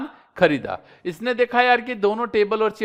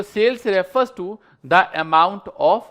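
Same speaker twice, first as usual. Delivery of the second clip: slow dictation; much slower than usual. Shown as a demonstration. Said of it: "reads definition slowly".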